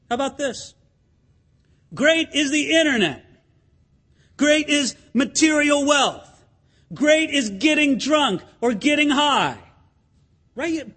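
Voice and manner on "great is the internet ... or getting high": higher, declaiming list of cries; mock screaming. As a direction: proclaim each one like a slogan. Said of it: "People scream that".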